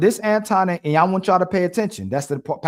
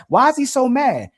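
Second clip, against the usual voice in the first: mocking; 8 semitones higher, 3 dB louder than usual. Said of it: "And people in the chat".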